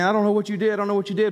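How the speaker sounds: high, excited imitation of an astonished man; retold amazement. Preacher imagines the healed man's words, in excited amazement.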